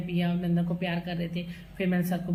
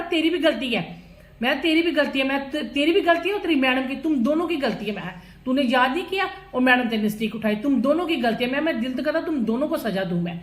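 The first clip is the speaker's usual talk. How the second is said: scolding son; 5 semitones higher, 4 dB louder than usual. Retold or imitated. Mother scolding her son in front of the teacher, replayed loud and higher. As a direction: scold the boy, hammering तेरी भी गलती है. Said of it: "मैं उसको भी डांट रही थी".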